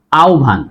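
আহ্বান said "aobhan"; h becomes o. Shown as a demonstration. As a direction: say আহ্বান with o and bh, no h-b cluster. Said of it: "উচ্চারণ হবে".

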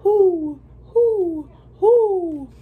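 high, loud owl hoots. Acted. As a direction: hoot like an owl.

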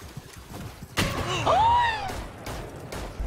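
startled gasp. Real, not acted. Streamer reacting to the game, startled gasp. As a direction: gasp sharply and high.

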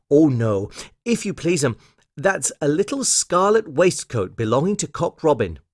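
lightly voiced polite washerwoman; Missus Tiggywinkle. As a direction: politely put the customer right, voice lifted.

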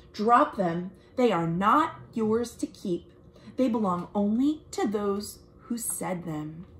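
put-on gentle, expressive read-aloud for kids; story narration. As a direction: read it like a picture book to children. Reads picture book aloud.

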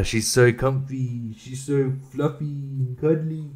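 slow tender cooing; cooing over dog. Real, not acted. Owner cuddling dog, slow tender cooing. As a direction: melt over the fluffy dog.

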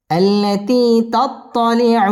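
slow, sung tajweed chant; Quran recitation. Shown as a demonstration. Teacher reciting the surah for students to follow, chanted. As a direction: let each line ring out melodically.

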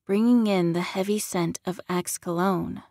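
ordinary delivery, nothing marked

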